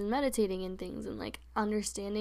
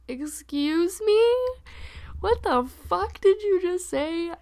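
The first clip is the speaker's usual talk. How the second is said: loud, slow, higher outraged disbelief; outraged comeback; 8 semitones higher, 7 dB louder, slower than usual. Retold or imitated. Answering the terrorist jibe, slow and outraged. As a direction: let each word land, appalled. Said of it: "And I'm like".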